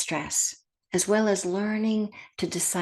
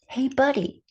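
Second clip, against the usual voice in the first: friendly, higher-pitched, gentle greeting; inviting inner voice; 5 semitones higher than usual. Retold or imitated. Bill's inner voice inviting him into the moment, kind and inviting. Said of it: "it's a voice that invites him".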